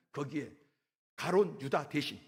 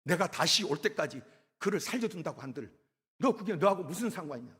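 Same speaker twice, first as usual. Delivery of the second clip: scolding. Retold or imitated. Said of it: "예수님께서 야단을 친 거예요".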